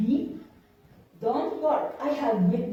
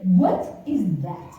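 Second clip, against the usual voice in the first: suspicious officer; 3 semitones lower, 7 dB louder, slower than usual. Retold or imitated. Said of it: "She said".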